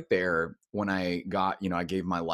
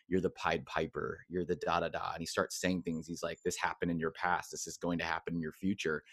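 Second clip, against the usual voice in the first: hushed prophet; 4 semitones lower, 6 dB quieter than usual. Retold or imitated. Prophet speaking over him.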